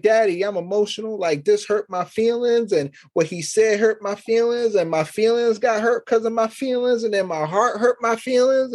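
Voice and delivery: whiny daughter. Retold or imitated. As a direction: play the daughter going on about her hurt feelings. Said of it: "So she be like".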